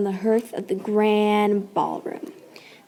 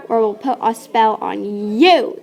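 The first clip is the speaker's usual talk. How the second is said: screamed. Acted. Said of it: "they screamed".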